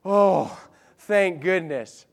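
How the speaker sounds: slow, sighing relief; relieved sigh. Retold or imitated. King finding Daniel alive, mild sigh of relief. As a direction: breathe out the relief. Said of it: "you can almost hear the sigh of relief".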